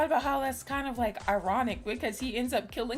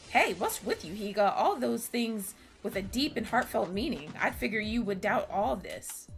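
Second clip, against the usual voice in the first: put-on anime girl voice. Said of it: "having Kakeru sound like an anime girl".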